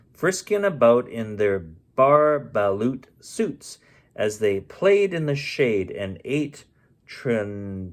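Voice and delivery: lilting read-aloud rhyme; story narration. A narrator's reading. Narrator reads the Lorax to listeners, lilting.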